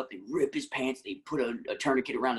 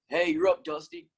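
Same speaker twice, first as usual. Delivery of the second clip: pitched-up audition line shout; calling out; 6 semitones higher than usual. Acted. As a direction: act out a kid's one-liner, calling to someone. Acts out his audition line.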